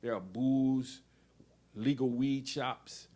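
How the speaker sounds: declaiming a political essay, measured and pointed; essay reading. Acted. Reader declaiming her essay to the audience, firm and measured. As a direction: read each charge out firmly to the room.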